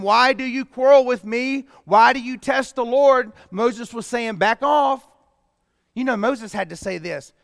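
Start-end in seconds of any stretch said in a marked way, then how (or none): 0.0-3.3 Moses rebuking. Acted. Reading Moses rebuking the people. 4.4-5.1 stern back off. Retold or imitated. Moses voiced pushing back.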